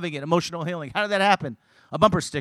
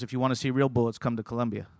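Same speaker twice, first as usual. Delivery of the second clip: offhand, lowered retold remark; casual; 4 semitones lower than usual. Pastor dropping a remark while passing a car, casual. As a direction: toss it off casually, pitched low. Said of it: "Pastor Bunch just casually said".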